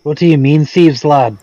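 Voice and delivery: offended dwarf; indignant retort. Acted. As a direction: bristle at the accusation.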